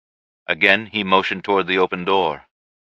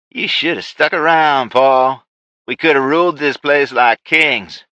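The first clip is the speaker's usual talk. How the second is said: higher, louder villain voice; villain reproach; 6 semitones higher, 4 dB louder than usual. Acted. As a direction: chide the old partner grandly. Ray to old partner Paul.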